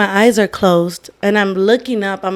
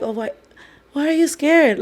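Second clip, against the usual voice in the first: put-on high little-girl voice; 6 semitones higher than usual. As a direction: imitate a small child asking. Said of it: "talking like a little girl".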